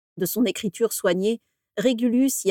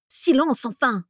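furious and frightened order; 5 semitones higher, slower than usual. A narrator's reading. Narcissa orders Orion to stop shouting. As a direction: hush him fiercely out of fear. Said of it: "lui ordonna Narcissa, furieuse et effrayée".

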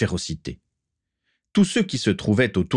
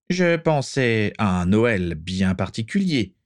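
menacing; 3 semitones higher, slower than usual. Acted. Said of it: "sourire menaçant".

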